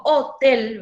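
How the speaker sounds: "hotel" as ho-TEL, last syllable stressed. Shown as a demonstration. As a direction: land the weight on TEL in "hotel". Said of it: "se carga la voz en la última sílaba".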